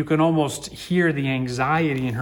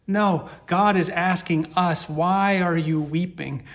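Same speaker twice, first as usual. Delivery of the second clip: inviting, not scolding; 5 semitones higher, 4 dB louder, slower than usual. Shown as a demonstration. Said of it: "Not as a scolding".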